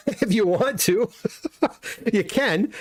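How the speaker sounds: chuckling through the words; amused shrug to a chat question; laughing. Real, not acted. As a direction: laugh as you allow it. Laughs while answering chat question.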